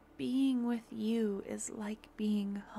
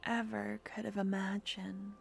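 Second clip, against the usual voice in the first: intimate roleplay voice. Acted. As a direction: murmur it close to the mic like a devoted partner. Romantic audio roleplay throughout.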